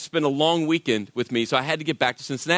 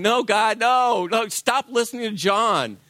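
pleading with God; 4 semitones higher, slower than usual. Retold or imitated.

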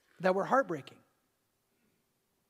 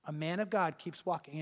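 quiet, lowered divine voice telling him to keep going; voice of God; 2 semitones lower, 6 dB quieter than usual. Retold or imitated. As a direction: speak it as a calm inner command, hushed. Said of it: "the Lord spoke again and said".

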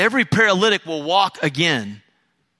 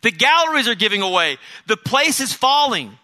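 raised, higher panicked cry, imitating; retold shout of fire; 5 semitones higher, 4 dB louder than usual. Preacher reenacts someone yelling fire in the crowded hall, raised mock yell. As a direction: call out the alarm as a mock yell. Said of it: "someone yells out".

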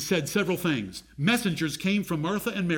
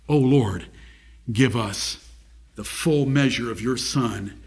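slow, lower-pitched, deliberate plea; prayer; 6 semitones lower, slower than usual. Real, not acted. Preacher asks the Lord for the full measure of his Son, prayerful. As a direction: pray solemnly in measured phrases.

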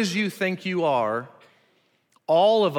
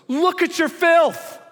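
high, loud, slow sneering accuser; sneering Satan voice; 13 semitones higher, 6 dB louder, slower than usual. Retold or imitated. Preacher voices Satan taunting the sinner, high sneering sneer. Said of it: "Satan looks at us and goes".

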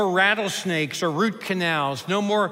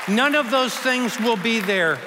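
louder, higher proclamation; emphatic declaration; 4 semitones higher, 4 dB louder than usual. Real, not acted. Preacher to congregation about heaven, loud proclamation. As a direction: proclaim it to the whole room. Preacher repeats the line twice.

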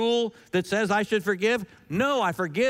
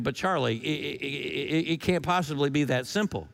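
skeptical listener; 5 semitones lower than usual. Retold or imitated. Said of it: "You're thinking".

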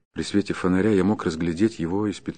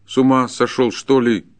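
raised, louder disbelief; astonished; 4 semitones higher, 5 dB louder than usual. Acted. Forester is taken aback by the peasant's abuse, astonished. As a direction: demand whether he has lost his mind. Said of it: "заговорил с изумлением лесник".

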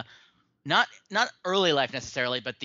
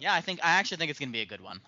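sarcastic; 2 semitones higher, faster than usual. Acted. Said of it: "that was sarcasm".

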